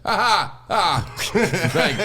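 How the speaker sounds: high giggling laugh; imitating laughing in his sleep; dream laugh. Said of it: "I'll laugh sometimes in my dreams".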